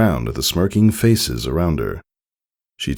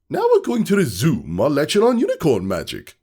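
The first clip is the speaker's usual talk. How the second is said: teacher voice; 11 semitones higher than usual. Acted. Teacher resumes lecture.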